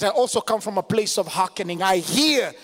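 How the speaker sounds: emphatic, rhythmic scripture declarations; forceful preaching. Real, not acted. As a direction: declare each phrase firmly to the congregation.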